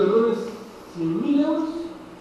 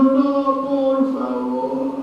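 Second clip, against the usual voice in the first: frightened plea; 4 semitones higher, much slower than usual. Acted. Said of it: "Se asustó, se arrodilló".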